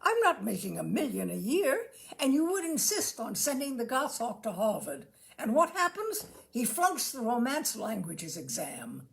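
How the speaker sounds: a fed-up father scolding over money; exasperated father. Acted. Father scolding his weeping wife, loud and indignant. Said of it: "the father of the family says to his weeping wife".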